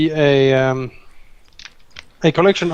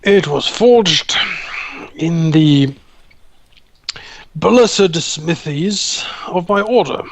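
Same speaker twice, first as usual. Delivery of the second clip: proud paladin; 3 semitones higher, slower than usual. Acted. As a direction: declaim it proudly. Paladin proudly explains weapon.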